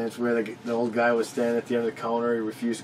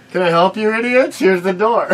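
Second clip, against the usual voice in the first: laughing mock taunt; 8 semitones higher, 8 dB louder than usual.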